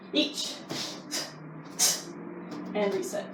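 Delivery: barked Japanese count, one per strike; sharp martial arts commands. Shown as a demonstration. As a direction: call each count crisply like a sensei. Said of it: "You're gonna do ten more".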